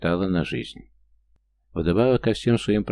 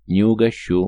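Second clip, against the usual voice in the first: blunt, louder refusal; rude retort; 4 semitones higher, 6 dB louder than usual. A narrator's reading. Ex-agent refusing to pay for the coffee, rudely. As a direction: shut him down, curt and loud. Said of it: "грубо ответил Витовченко".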